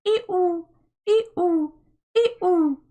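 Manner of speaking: high, loud seagull ee-oo; high, rising gull calls; gull cries. A narrator's reading. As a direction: imitate wailing gulls.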